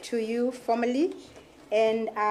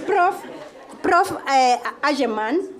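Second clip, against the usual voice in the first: 'Ageman' with a hard G, West African style; West African accent; 3 semitones higher, 4 dB louder than usual. Shown as a demonstration. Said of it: "I'm using my African accent".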